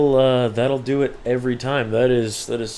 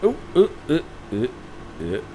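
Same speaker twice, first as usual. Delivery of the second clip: excited oohs; 2 semitones higher than usual. Real, not acted. Reacting to a bike wobble.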